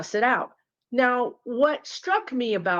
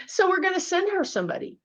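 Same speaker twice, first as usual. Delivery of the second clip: a lightly voiced spirit, higher and chirpy; spirit guide voice; 10 semitones higher, faster than usual. Spirits plotting about Susan, lightly mocking chirp. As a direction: play the spirit guide, amused and bossy. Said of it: "Spirit says".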